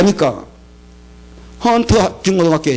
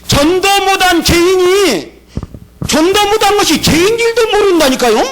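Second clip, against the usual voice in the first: fiery sermon rebuke; preaching at full force; 11 semitones higher than usual. Real, not acted. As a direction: thunder it from the pulpit.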